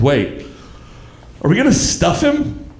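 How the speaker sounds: imitated kid's question, pitch jumping up at the end; lightly voiced daughter, pausing then asking high; curious child. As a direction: stop short, then ask like a puzzled kid. Sobbing daughter abruptly stops to ask.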